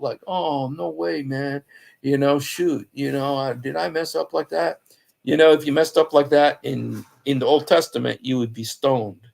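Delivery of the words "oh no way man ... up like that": mildly mock-dismayed; bummed out. Muhammad learning he messed up, mildly bummed out. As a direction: play a slangy, let-down "oh no". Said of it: "was all bummed out".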